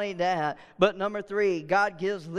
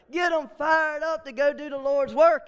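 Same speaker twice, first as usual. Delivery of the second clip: fired-up shout; 4 semitones higher than usual. Real, not acted. Preacher rallying congregation.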